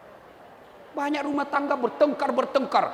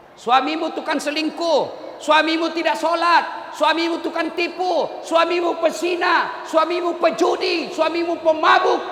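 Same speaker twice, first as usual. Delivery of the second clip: preaching build; 5 semitones higher, 3 dB louder than usual. Real, not acted. Preacher listing husband's sins.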